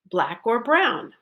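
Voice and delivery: "black" and "brown" both stressed; a parent offering two choices, "black" and "brown" stressed. Shown as a demonstration. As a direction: rise on "black", fall on "brown". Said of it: "I will be the parent".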